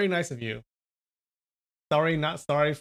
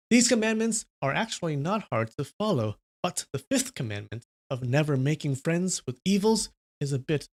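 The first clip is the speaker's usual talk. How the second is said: clear announcement; 2 semitones higher than usual. Acted. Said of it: "announced in a clear voice".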